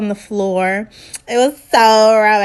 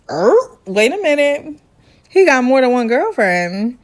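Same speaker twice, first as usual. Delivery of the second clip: higher, lightly acted disbelief; mock startled objection; 3 semitones higher than usual. Girlfriend catches boyfriend's son's claim, mock startled. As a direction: imitate someone pulled up short. Acts out Rachel's shocked reaction.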